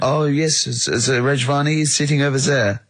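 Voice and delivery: a hint of a German accent creeping in by the end; slipping into German accent. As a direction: drift towards German on the last words. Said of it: "he went German towards the end".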